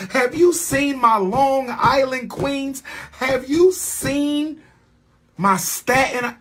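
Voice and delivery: hyped crescendo from mid to high; building hype. Real, not acted. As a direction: climb up in pitch boasting of each borough. Hyping New York queens, building.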